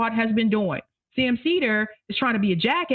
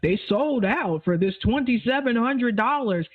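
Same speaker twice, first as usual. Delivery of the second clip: smug mockery; slower than usual. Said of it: "That smug, condescending told, like".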